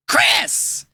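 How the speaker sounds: breathy high yell from far off; muffled whisper-shout. Acted. Trapped host calling his captor, a high whispered yell. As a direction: hiss his name through the wall.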